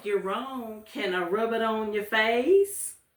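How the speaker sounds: put-on high Southern accent, the word "face" drawn out. Retelling what a patient said while being changed: imitating a Southern accent. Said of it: "she did not speak in a Southern accent, but she did for me".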